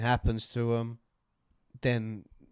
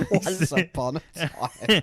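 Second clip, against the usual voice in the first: grand storyteller voice; 6 semitones higher, 6 dB louder, much slower than usual. Retold or imitated. Mocking the storyteller opening.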